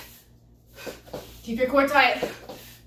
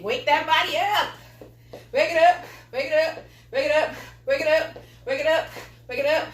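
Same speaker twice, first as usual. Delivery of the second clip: hyped wake-up call; 4 semitones higher than usual. Real, not acted. Coach hyping up morning class.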